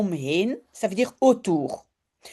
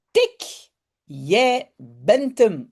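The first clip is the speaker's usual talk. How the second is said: calling out in tag; much slower than usual. Acted. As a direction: sing out like a child who just tagged someone. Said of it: "roept Janneke".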